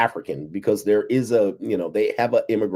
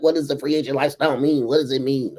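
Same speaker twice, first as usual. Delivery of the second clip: higher-pitched whiny-sounding heckler quote; mockingly parroting a question in a raised voice; mock questioner; 6 semitones higher than usual. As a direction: imitate a clueless critic, pitched up. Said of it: "They're like".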